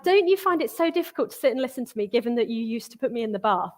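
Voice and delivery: teasing mum. Retold or imitated. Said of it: "because I'm like".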